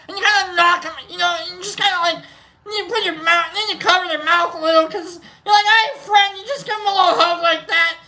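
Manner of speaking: high-pitched, playful put-on voice; mock-friendly hug demo. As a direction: act out an overfriendly hug in a high voice. Demonstrates an awkward side hug.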